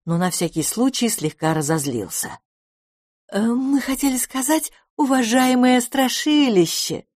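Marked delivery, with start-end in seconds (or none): 3.3-7.0 flustered correction. A narrator's reading. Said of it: "поправилась госпожа Куцехвост".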